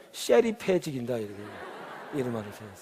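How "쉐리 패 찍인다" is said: laughing mock threat. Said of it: "좀 더 센 사람은".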